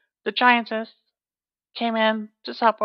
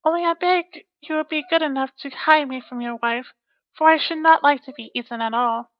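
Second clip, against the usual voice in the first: lightly voiced girl; 4 semitones higher than usual. Girl's voice in story.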